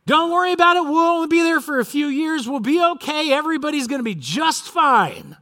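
high, sustained crowd-addressing call; mock yelling. False prophets addressing the exiles, yelling reassurances. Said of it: "yelling, screaming".

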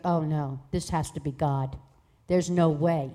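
low-pitched retold disbelief; brother's disbelief. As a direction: drop low for a stunned refusal. Voices brother's disbelieving reply.

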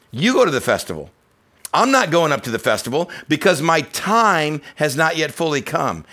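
ordinary talk, nothing marked

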